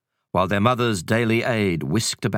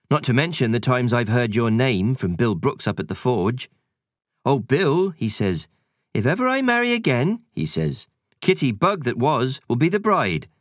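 lightly voiced cheeky country sprite; a hint of a rustic sprite; 6 semitones higher than usual. Sprite teasing the housekeeper.

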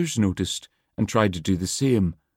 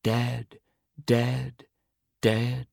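crying out; 3 semitones higher, 4 dB quieter, much slower than usual. A narrator's reading. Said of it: "The smaller ones cried out".

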